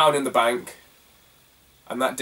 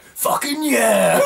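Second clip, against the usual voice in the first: game voice quote; 11 semitones higher, 4 dB louder, much slower than usual. Retold or imitated. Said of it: "It's like".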